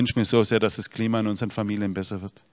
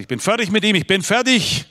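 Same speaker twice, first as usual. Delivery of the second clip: high, loud desperate yell; loud mock outcry of a worn-out father; retold shout; 10 semitones higher, 5 dB louder than usual. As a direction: shout it out, at the end of his rope. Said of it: "Und dann hat er geschrien".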